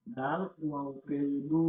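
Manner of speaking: দু held long after the spelling; one-alif madd. Shown as a demonstration. Teacher spelling out dal and waw, long-drawn দু. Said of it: "একালিপ টান দিয়ে পড়তে হবে".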